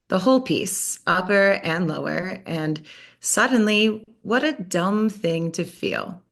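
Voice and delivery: measured, intimate poem reading; poetry reading. Acted. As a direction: read it like a spoken-word poem. Reads her poem aloud.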